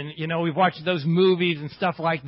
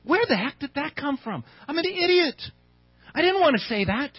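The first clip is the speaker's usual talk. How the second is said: higher-pitched, bewildered questioning of oneself; exasperated self-reproach; 4 semitones higher than usual. Acted. Preacher voicing someone who just said something they regret, exasperated. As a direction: act out kicking yourself, pitch raised.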